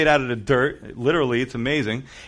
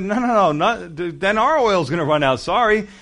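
high, hurried refusal; a hint of a nervous no; refusing wise virgins; 5 semitones higher, 4 dB louder than usual. Wise virgins turning the foolish ones away, high and quick.

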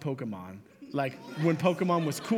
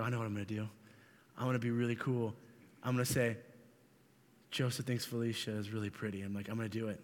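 low hushed scheming, softer throughout; 7 semitones lower, 9 dB quieter, faster than usual. Retold or imitated. Little boy whispering his plan to himself in class. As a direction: plot it under your breath like a kid with a secret. Kid plotting telephone game message.

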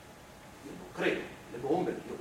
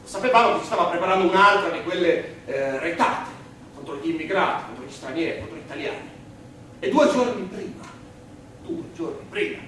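loud and higher, furious about the raids; indignant shout; 6 semitones higher, 9 dB louder than usual. Acted. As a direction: shout each contro line out in anger. Passionate testimony about the raids.

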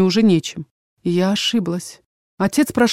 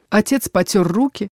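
ordinary delivery, nothing marked

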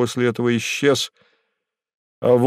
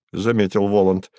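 ordinary delivery

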